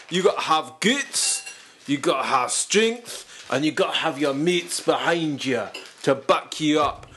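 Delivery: lightly voiced army drill sergeant; a hint of a tough sergeant barking orders; Sergeant Tom McEwen. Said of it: "Sergeant Tom McEwen".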